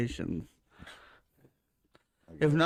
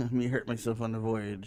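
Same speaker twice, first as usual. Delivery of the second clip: pirate voice; 3 semitones lower, 4 dB quieter than usual. Pretend. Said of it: "You sound like a pirate".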